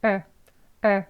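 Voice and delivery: er said weak and short. Shown as a demonstration. Teacher shows the weak ending er. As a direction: let er go light and short. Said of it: "약하게".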